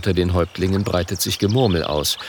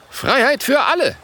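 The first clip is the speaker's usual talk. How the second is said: high, loud rallying cry; calling out; 3 dB louder than usual. Acted. Gelbes Ei ruft dem Rat zu. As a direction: shout it like a slogan. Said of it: "ruft Gelbes Ei".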